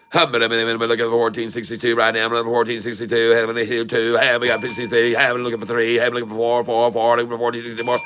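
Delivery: rapid auctioneer chant calling prices. Acted. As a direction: rattle off bids like an auctioneer. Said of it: "the auction voice".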